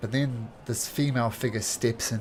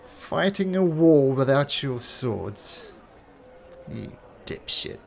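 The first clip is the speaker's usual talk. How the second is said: mocking woman's voice; 4 semitones higher, 5 dB louder, slower than usual.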